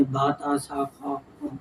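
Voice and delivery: با تا سا خا خواں softly in Arabic style; Arabic letter sounds. Shown as a demonstration. Teacher repeats the Arabic letter sounds for students. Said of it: "عربی لہجے میں پڑھنا ہے ہم نے".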